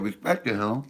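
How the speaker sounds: usual speaking voice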